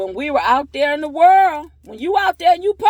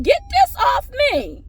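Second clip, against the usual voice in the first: mock baby wail; 13 semitones higher than usual. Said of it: "that baby be like".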